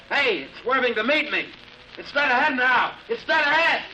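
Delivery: the thing is coming straight at you; excited alarm. Acted. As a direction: pitch climbing high with alarm. Pilot reliving chase in trance.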